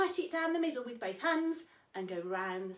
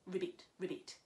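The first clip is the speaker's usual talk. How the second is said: frog croak; 6 semitones lower, 9 dB quieter than usual. Pretend. Imitating frog sound.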